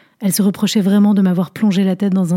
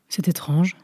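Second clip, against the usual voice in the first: dit plus doucement, presque pour soi; murmuré; 6 dB quieter, slower than usual. Acted. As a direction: laisser tomber la voix dans un murmure. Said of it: "murmura-t-elle". (la vieille dame murmure en détaillant le narrateur)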